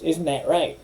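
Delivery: mock the lawyer's accusing question; acrimonious tone. Lawyer cross-examining the witness, acrimonious. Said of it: "she's got that acrimonious tone".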